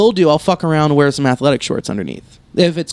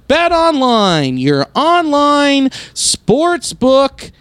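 polished radio ad read. Shown as a demonstration. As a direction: read it like a sponsor spot. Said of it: "my reading voice like that".

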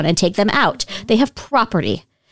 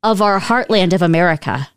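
ad announcer; 2 semitones lower than usual. Acted. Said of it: "I had to do that".

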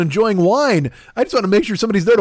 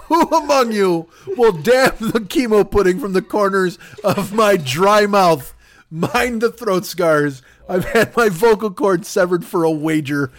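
hammed-up dying plea. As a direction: drag it out like a theatrical deathbed speech. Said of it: "put that chunk as my bio".

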